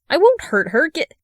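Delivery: a voice shaking as he fights it; trembling voice. A narrator's reading. Darling trembling as he resists the wizard. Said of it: "his voice trembles".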